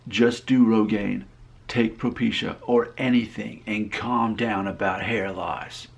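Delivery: slow, emphatic all-caps readout; mild mock anger. Reading an angry viewer's all-caps comment, mild mock anger. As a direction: spell out the angry comment slowly, half in earnest. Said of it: "then he just got angry".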